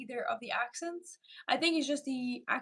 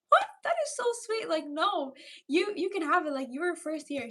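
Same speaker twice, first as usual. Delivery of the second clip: touched surprise; 5 semitones higher, 4 dB louder than usual. Retold or imitated. Retelling kind stranger offering cookie.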